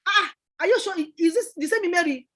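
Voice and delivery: can't believe it's her; surprised disbelief. Retold or imitated. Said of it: "they were like".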